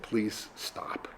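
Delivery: voiceless whispered plea. Retold or imitated. Innkeeper repeats the wife's plea as a whisper. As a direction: whisper it so the wife won't hear. Innkeeper relays wife again.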